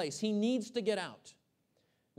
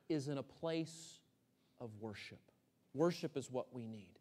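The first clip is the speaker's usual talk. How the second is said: hushed whisper; 8 semitones lower, 7 dB quieter than usual. Acted. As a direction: sink to a whisper on "of worship". Preacher drops to hushed climax.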